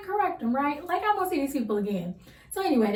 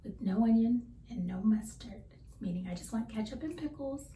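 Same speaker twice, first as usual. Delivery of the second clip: whisper; 6 dB quieter than usual. Real, not acted. Whispered aside while listing order.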